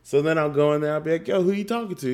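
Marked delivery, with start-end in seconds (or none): 1.3-2.1 puzzled questioning. Retold or imitated. Dad acts out first question.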